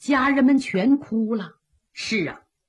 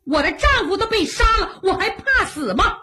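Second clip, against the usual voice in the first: a widow's furious shout to charge; battle cry; 10 semitones higher than usual. Acted. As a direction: fire the troops into a charge.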